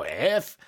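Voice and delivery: mouthed stand-in for a bleep; imitated censor noise. Explaining a character's swear censor, imitated noise. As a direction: mimic a cartoon villain's censor sound. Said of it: "he had that censor effect".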